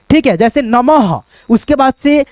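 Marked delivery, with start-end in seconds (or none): 0.6-1.2 slow teacher's नमः ending in h; visarga pronounced. Shown as a demonstration. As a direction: stretch out नमः and breathe an h at the end. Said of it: "विसर्ग का उच्चारण ह के रूप में".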